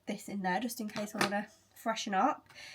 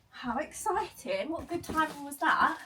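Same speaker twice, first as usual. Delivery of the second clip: excited; 6 semitones higher than usual. Real, not acted. Parcels arrive.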